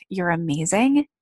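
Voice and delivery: ordinary talk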